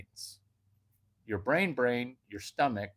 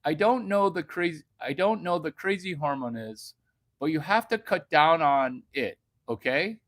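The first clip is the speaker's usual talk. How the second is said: higher reading-aloud voice; reading notes; 3 semitones higher than usual. Acted. Reading his notes to the woman, mock official. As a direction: read it like a doctor's note. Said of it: "I have something to read to you".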